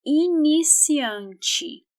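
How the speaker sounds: Iniciante slowly, final E as i, inisianchi; slow model word. Shown as a demonstration. Teacher modelling Iniciante for learners, slow and clear. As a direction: stretch Iniciante out. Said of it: "the vowel E has a E sound".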